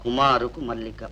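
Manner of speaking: low, soft reading aloud; letter reading. Acted. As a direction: read it out slightly hushed, pitch dropped. (తగ్గు స్వరంలో ఉత్తరం చదువుతూ)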